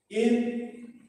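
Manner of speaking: loud calls over the effort of jabbing; shouted breathing cues. Real, not acted. Trainer calling breath cues to class mid-workout, loud. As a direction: bark each in and out while punching.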